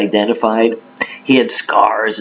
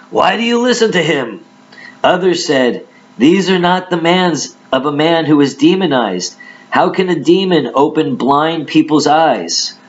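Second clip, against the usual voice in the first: scripture reading; 5 semitones higher than usual. Acted. Reads crowd's dispute.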